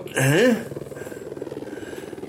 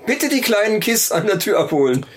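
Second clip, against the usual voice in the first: store announcement. Acted. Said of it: "rede wie eine Kaufhausdurchsage".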